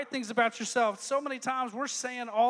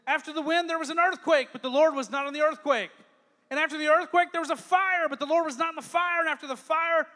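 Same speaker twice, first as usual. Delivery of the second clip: rising louder through the storm; building intensity; 3 semitones higher, 5 dB louder than usual. Acted. Preacher building the storm scene to a peak.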